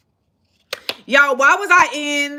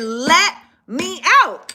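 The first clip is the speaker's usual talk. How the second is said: demanding; 4 semitones higher, 4 dB louder, much slower than usual. Retold or imitated. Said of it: "and I said".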